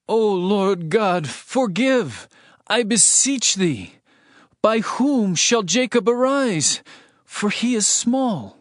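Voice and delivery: earnest slow entreaty; pleading prayer. Acted. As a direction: beg the Lord for mercy, slowly. Amos pleads with God.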